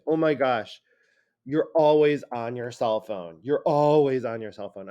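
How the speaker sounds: mildly exasperated accusation, "always" stressed; acted hyperbolic grumble; exaggerated complaint. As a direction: lean on "always" as you nag. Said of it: "hyperbole, when we always say".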